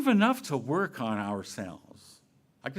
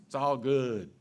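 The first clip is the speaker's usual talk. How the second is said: "It's all good" with a light fall on "all"; breezy reassurance; 3 dB louder than usual. Shown as a demonstration. Preacher demos the phrase again, casual falling tune. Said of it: "say it with the right inflection in the voice".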